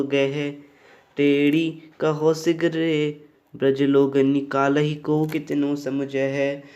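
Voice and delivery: slow, even-toned poem recitation; verse recitation. Acted. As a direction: recite the verse slowly on a level pitch, drawing out line endings. Reads out the verse. (धीमे, एक सुर में सवैया पाठ)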